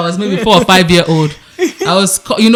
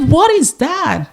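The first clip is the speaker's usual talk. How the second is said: put-on little boy voice; 9 semitones higher, much slower than usual. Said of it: "He said".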